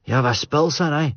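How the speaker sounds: lightly voiced Scots grandfather; old Joe stopping to help the boy; Scottish old man.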